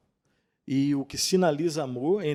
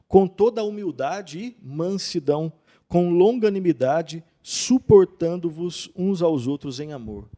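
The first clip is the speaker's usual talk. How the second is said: raised, solemn Bible reading, a little louder; scripture reading; 3 semitones higher, 6 dB louder than usual. Acted. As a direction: proclaim the verse like from the pulpit. Reads Ephesians aloud.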